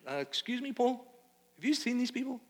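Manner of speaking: high-pitched mock-polite doubter; incredulous interjection. Doubter interrupts Paul about these people, incredulously.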